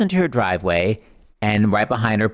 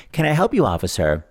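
blank-faced innocence. Retold or imitated. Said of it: "decided to remain blank-faced".

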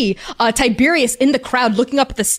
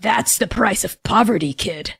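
growly gnoll voice; 2 semitones lower than usual. Acted. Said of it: "growly voice next to him".

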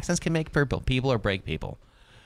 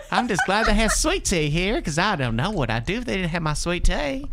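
exaggerated Southern accent; 9 semitones higher, 3 dB louder than usual. Host joining the imitation about sweet tea, exaggerated Southern accent. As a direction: ham up a Southern accent, high-pitched. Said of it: "the way he heard us talk".

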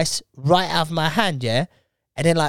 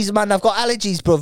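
high defensive excuse; 7 semitones higher, much faster than usual. Pretend. Acted excuse in skit.

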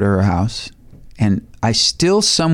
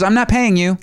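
high-pitched diva impression; high mock-diva voice; a famous singer; 9 semitones higher than usual. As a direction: imitate a star laying down terms, pitched up. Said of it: "She goes".

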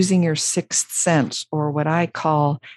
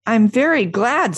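higher, lilting happy voice; Pooh, happy; 6 semitones higher, 4 dB louder than usual. A narrator's reading. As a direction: say it brightly, with pleased pride. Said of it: "said Pooh happily".

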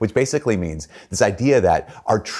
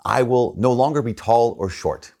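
reading the book aloud; 2 semitones higher than usual. Retold or imitated. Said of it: "it says, um".

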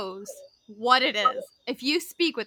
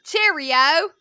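raised, louder British sign-off; hammy, higher-pitched British; British accent; 4 semitones higher, 6 dB louder than usual. Shown as a demonstration. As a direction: sing out a stock British accent. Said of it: "go British first".

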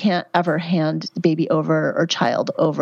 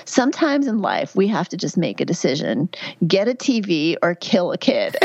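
imitating a Southern client's Georgia accent; lightly mimicked Georgia accent; heavy Georgia accent. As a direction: deliver the punchline with a Georgia twang. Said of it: "in this heavy Georgia accent".

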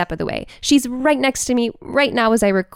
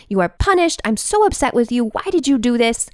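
imitated scolding; 3 semitones higher than usual. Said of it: "with an energy of being very mad".

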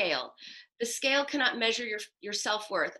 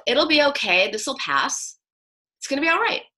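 indifferent tone; 4 semitones higher, 6 dB louder than usual. Retold or imitated. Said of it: "same words in a different tone".

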